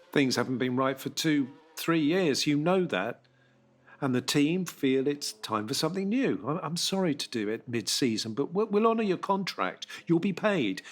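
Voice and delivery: a boss covering his unease while delivering bad news; lightly voiced team boss. Jay voiced as a character.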